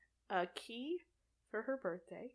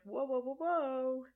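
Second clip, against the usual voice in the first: mock alarmed werewolves; 5 semitones higher, 5 dB louder than usual. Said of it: "come up and are like".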